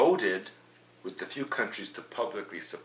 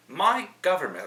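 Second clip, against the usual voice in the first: put-on Australian accent; 10 semitones higher, 9 dB louder than usual. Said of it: "of course he said it with an Australian accent".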